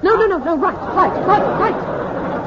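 laughing. Acted. Captain flusters steering.

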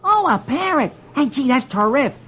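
high-pitched wonder; delighted family. A narrator's reading. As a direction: gush in a high comic-strip voice. Family admires the parrot.

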